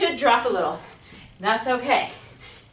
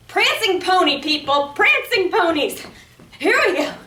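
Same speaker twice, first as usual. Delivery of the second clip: excited coach; 5 semitones higher, 3 dB louder than usual. Real, not acted. Coach cheering through high knees.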